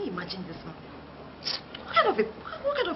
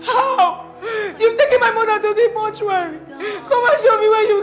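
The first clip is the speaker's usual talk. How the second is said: sobbing accusation; 3 semitones higher than usual. Acted. Son crying, shouting at nurse.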